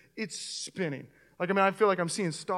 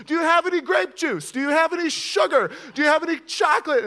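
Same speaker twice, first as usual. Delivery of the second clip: higher and louder, calling from another room; retold yelling; 8 semitones higher, 7 dB louder than usual. Nurse calling to the fainted patient from the kitchen, yelling higher and louder. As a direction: call out urgently from the kitchen. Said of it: "I hear her yelling from my kitchen".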